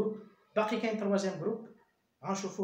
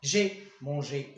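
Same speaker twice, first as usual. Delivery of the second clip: slow dictation; 6 semitones lower, much slower than usual. Shown as a demonstration. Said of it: "حيت كاين اوكسيليير افواغ".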